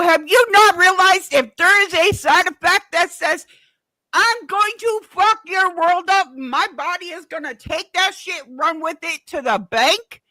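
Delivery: exasperated outburst at rising volume; worked-up rant. Retold or imitated. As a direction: tell off the doctor, loud and heated. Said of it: "calm down a little bit".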